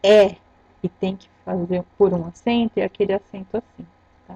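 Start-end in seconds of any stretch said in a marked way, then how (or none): 0.0-0.4 É said as an open, loud eh; open E sound. Shown as a demonstration. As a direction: demonstrate the open É vowel clearly. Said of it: "o som do E for".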